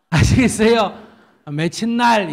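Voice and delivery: high, loud, slowly spelled-out question; Seoul man asking. Retold or imitated. Preacher voices the Seoul man asking for a date, high and slow. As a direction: play the eager Seoul suitor pinning down a date. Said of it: "이 서울 남자가".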